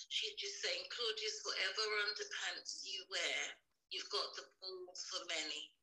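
quiet, distant, off-mic voice; speaking far from the phone. Real, not acted. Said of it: "it's just really quiet".

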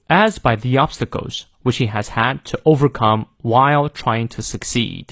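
content words stressed, starting with "as". Shown as a demonstration. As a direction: lean on "as", weaker function words. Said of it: "as也要重读". (重读"as"和实词，虚词弱读)

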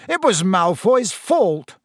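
high, drawn-out angry retort; snapping. A narrator's reading. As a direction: snap back, leaning on the blame. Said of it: "snapped Dean Thomas".

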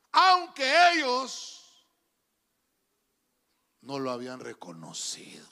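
sermon point from loud to hushed; loud then whispered. Real, not acted. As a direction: swell then drop to a whisper. Preacher emphatic then whispered.

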